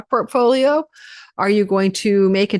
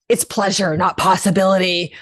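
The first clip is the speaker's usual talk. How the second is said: laughing at a slip. Real, not acted. Flubbed line, laughing.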